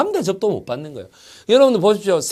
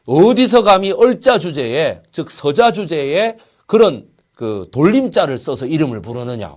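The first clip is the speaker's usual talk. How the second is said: indignant mock rebuke; 4 dB louder than usual. Acted rebuke of a lowborn son.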